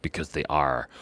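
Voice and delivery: low, soft echo of the punchline; quiet repeat. Real, not acted. Savouring the pirate joke afterwards, quiet and low. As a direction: say it softly and low to yourself.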